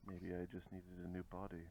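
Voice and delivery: low, soft taunting villain; quiet menace. Acted. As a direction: taunt your enemy softly and low. Player taunts enemy in character.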